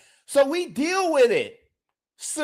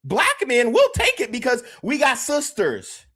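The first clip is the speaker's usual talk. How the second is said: normal talking voice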